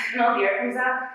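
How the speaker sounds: normal talking voice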